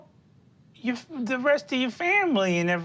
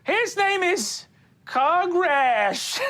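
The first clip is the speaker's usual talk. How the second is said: Wally's voice; 10 semitones higher, much slower than usual. Acted. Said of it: "you see he goes".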